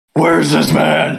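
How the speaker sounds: put-on gruff hero voice. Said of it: "a Batman voice come out of a tiny slime girl's".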